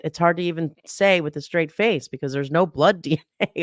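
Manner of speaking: stifling a laugh mid-sentence; can barely keep a straight face. Real, not acted.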